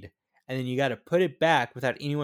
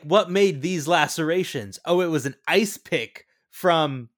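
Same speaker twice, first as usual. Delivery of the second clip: slow, louder hammed-up investigator; mock CSI dialogue; 6 dB louder, slower than usual. Friend mocks TV investigators, slow and hammed-up. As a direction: play a TV detective, slow and a bit louder.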